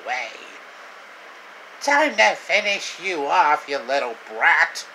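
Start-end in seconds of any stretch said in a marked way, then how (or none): 1.8-4.8 higher, louder villain threat; lightly voiced gloating villain. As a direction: sneer it at the little brat. Villain Krang threatens hero.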